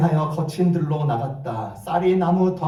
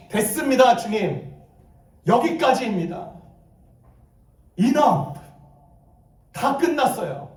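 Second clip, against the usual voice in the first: higher, fed-up plea in short bursts; lamenting prayer; 4 semitones higher than usual. Acted. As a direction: give up before God, pausing between cries. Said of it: "기도와 탄식과 함께".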